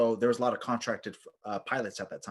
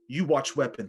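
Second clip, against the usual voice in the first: brusque imitated Polish accent; 3 semitones higher, 4 dB louder than usual. Polish soldier handing over his weapon, Polish accent. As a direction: toss off an order in a Polish accent. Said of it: "this Polish guy walks over".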